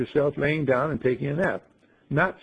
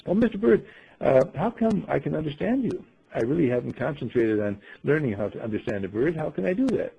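Ingeborg wondering. Acted. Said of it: "Ingeborg addressing the bird".

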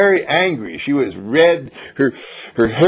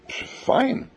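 a flat, breathy whispered fine; bored flat answer; 12 semitones higher, 7 dB quieter than usual. Shown as a demonstration. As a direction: shrug it off, no life in it.

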